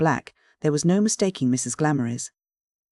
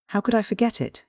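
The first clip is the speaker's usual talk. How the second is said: pitched up high in shock; astonished stammer; 7 semitones higher than usual. A narrator's reading. Man blurts to the widow at the grave, astonished. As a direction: caught off guard and tripping over the words. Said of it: "he stammered, astonished".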